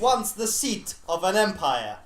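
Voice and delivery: grand intro that cracks up; mock trailer narrator.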